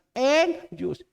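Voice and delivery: father calling daughter from downstairs. Retold or imitated. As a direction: call her name up the stairs. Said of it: "saya datang".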